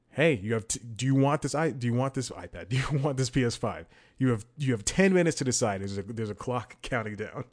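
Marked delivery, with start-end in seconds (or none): 0.1-5.8 higher, livelier mock pop-up message; website prompt voice. Website offers him a PS5 after the wait, lively mock prompt. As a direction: lightly act out an eager automated prompt. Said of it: "and then it goes".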